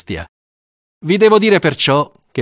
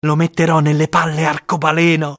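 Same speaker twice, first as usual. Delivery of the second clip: put-on boy's voice; 5 semitones higher than usual.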